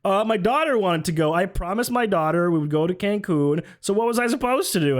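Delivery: mocking, whiny-excuse imitation of him; defensive excuse. Mocking a politician's excuse about his daughter, defensive. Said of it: "He was like".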